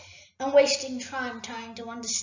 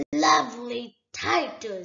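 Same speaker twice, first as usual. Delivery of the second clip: sneering dragon; 4 dB louder than usual. Acted. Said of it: "sneered the dragon".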